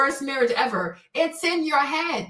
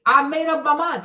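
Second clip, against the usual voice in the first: ordinary talk, nothing marked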